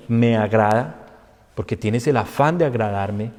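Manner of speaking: quiet, low, gentle reassurance; soft paternal voice; God calming. Retold or imitated. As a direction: soothe the believer patiently. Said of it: "Dios le dice".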